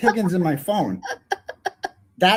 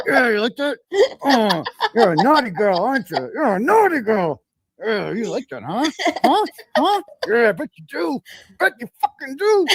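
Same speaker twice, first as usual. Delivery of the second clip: laughing mock bedroom talk; 4 semitones higher than usual. Voicing man, laughing, rising.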